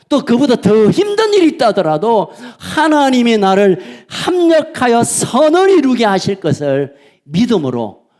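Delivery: ordinary talk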